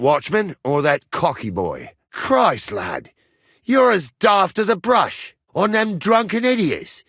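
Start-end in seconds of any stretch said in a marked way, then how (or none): 2.1-2.7 higher, exasperated exclamation. Acted. Bookie reacts to a hopeless bet, exasperated. Bookie scorns the bettor's pick. 3.6-7.0 high-pitched, incredulous scolding; scornful disbelief. Acted. Bookie tells lad he's daft to bet, scornful disbelief.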